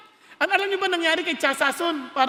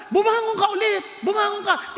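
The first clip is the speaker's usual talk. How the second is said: rousing shout; 4 semitones higher than usual. Acted. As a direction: shout them back to their feet. Pastor rousing congregation.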